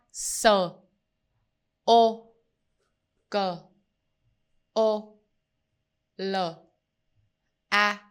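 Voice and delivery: spelling out letter by letter; s o k o l a said slowly one by one; sounding out letters. Shown as a demonstration. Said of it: "Let's sound out the letters".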